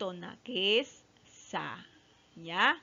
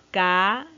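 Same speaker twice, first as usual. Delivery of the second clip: "Camisa" in three long, separate syllables; loud, spaced-out teaching "Camisa"; split into syllables; 2 semitones lower, 6 dB louder than usual. Shown as a demonstration. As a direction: stretch each syllable of "Camisa", pausing after each. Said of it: "Separamos en sílabas".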